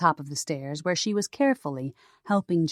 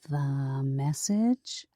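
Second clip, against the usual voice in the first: impatient prompt; 3 semitones lower, 3 dB quieter, much slower than usual. A narrator's reading. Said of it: "Celeste prompted".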